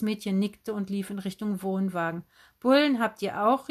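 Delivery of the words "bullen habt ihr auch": higher, louder excited question; erstauntes Rufen. A narrator's reading. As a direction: call out in delighted astonishment. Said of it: "rief Tante Heidrun". (aufgeregt gerufen)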